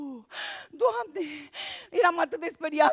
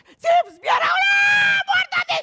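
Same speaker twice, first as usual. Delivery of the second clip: frantic shout; 5 dB louder than usual. Retold or imitated. Ghost driver's passenger yells in terror, screaming high. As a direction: yell it high and loud, panicked. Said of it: "care zice".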